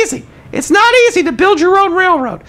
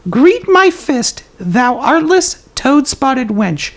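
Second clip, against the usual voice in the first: slow, measured archaic insult; unhurried, composed mock-Shakespearean taunt; calm mock insult; 5 semitones lower, much slower than usual. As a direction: deliver the challenge calmly and deliberately, dropping lower at the end. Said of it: "you just calmly say".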